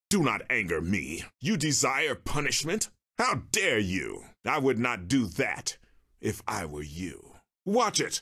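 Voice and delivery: indignant Jedi Master, controlled; stern warning. Acted. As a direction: warn them off with formal authority. Jedi warns someone provoking him.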